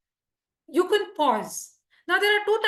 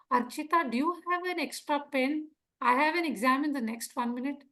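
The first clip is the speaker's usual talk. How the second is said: softer, unhurried request despite urgency; relaxed, softer ask; too calm; 5 dB quieter than usual. Shown as a demonstration. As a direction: ask for a pen as if nothing's at stake. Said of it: "Appropriate? Natural? No".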